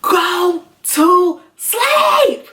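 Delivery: high, drawn-out full-force yell; yelling at the top of lungs. Retold or imitated. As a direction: yell each word long and high, frustrated. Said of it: "I just yelled at the top of my lungs".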